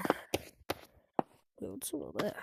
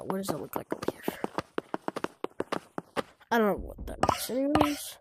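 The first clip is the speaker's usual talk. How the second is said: whisper; faster than usual. Real, not acted. Whispering while exploring level.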